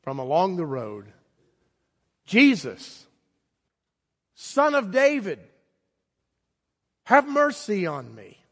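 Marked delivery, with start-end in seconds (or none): 2.2-8.4 a high, slow cry called out from the roadside; shouting for mercy. Retold or imitated. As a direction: plead loudly and slowly, as if calling from afar. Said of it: "And he shouted out".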